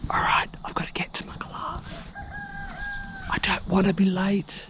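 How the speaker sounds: quick whispered sign-off; hushed whisper. Real, not acted. Vlogger leaving for yoga class at dawn, whispering. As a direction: whisper so as not to wake others. Quiet morning at retreat.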